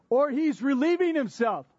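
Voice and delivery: mocking taunt. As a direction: jeer at the priests like a heckler. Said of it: "Elijah begins to mock them".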